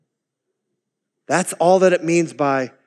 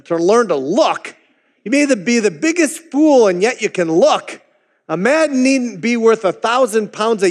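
raised, fervent country preacher voice, a hint of Essex; lay preacher's sermon; 4 semitones higher than usual. Preacher quoted in broad Essex dialect.

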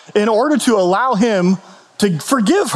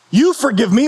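higher-pitched, indignant retort; incredulous; 4 semitones higher than usual. Retold or imitated. Kathleen challenging Frank on why he forgives her, incredulous. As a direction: throw it back in mock disbelief. Repeating the film character's offended reply.

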